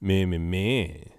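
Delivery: 放慢、变了音色，模仿只顾自己的人; 轻轻演一个只想着自己的人; 自我中心的口吻. Retold or imitated. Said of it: "synecdoche is the one where you're like".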